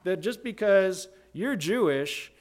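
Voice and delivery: sarcastic paraphrase, easing back down toward the end; Paul's sarcasm. Acted. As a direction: challenge them with mock disbelief. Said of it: "almost sarcasm just, just dripping".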